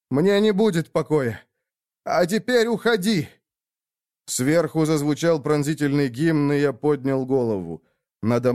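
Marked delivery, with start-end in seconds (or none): 0.1-3.3 urgent plea. Acted. Son urges father to leave.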